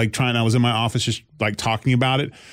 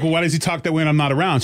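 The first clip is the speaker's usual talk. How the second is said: laughing quote; faster than usual. Retold or imitated. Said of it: "And she's like".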